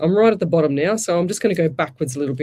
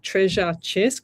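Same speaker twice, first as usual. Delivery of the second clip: slow careful; slower than usual. Shown as a demonstration. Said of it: "that's like a tongue twister".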